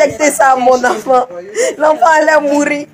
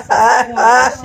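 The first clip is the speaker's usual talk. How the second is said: anguished wail; 2 semitones lower, much slower than usual. Real, not acted. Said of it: "cette dame qui est en train de pleurer". (long cri aigu de douleur, très lent)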